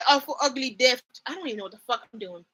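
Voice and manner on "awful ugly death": lightly faked Irish accent; Angel's Irish accent. Shown as a demonstration. Reading an Angel line aloud, badly faked Irish accent. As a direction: try a rough, mock Irish accent. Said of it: "let me go find an an-, a angel line".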